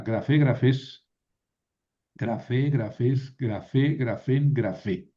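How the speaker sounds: "grafé, grafés, grafén" con acento en la última sílaba; acento final. Shown as a demonstration. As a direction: recita la declinación marcando FE en "grafé". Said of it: "el acento está al final". ("grafé" aguda, acentuada al final)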